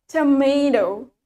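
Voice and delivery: tomato drawn out as a teacher's British example; tomato said with deliberate, lengthened syllables; British pronunciation. Shown as a demonstration. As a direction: model "tomato" slowly for students to copy. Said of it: "In British accent, we say it".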